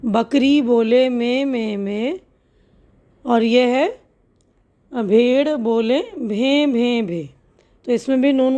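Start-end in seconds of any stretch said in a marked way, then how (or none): 0.1-7.2 put-on slow, sing-song rhyme for small children; unhurried children's rhyme recital; slow nursery rhyme reading. Shown as a demonstration. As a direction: read each animal sound slowly and clearly.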